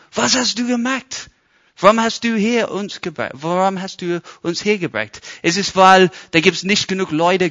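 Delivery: high, loud complaining crowd; grumbling complaint. Retold or imitated. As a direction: whine at Moses, accusing him. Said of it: "Und die fangen an zu meckern, richtig meckern".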